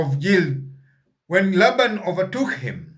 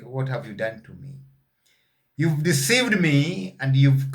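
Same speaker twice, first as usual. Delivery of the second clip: polite. Retold or imitated. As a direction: ask gently, as if wounded, not angry. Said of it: "he went to there politely".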